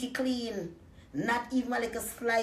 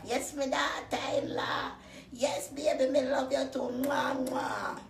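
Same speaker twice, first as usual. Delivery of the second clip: mock sweet mother-in-law; 5 semitones higher than usual. Mother-in-law voiced sweetly on phone.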